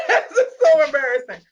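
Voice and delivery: high, loud laugh into the words; embarrassed laughing. Real, not acted. Host embarrassed at crying on the call, laughing.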